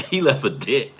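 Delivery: laughing through the words; can't hold back the laugh at the punchline. Real, not acted. Cracking up at the punchline.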